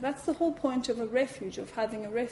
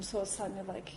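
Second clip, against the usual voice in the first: ordinary talk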